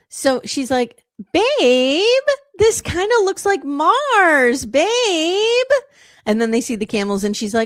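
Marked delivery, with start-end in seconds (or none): 1.3-5.7 annoying, very high, very slow drawl. Retelling what she said on seeing the desert: imitating her annoying voice. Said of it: "Her voice and her language is so annoying".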